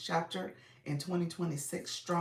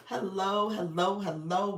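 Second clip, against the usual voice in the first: sing-song hello; 3 semitones higher, 6 dB louder, slower than usual. Real, not acted. Opening greeting to livestream viewers.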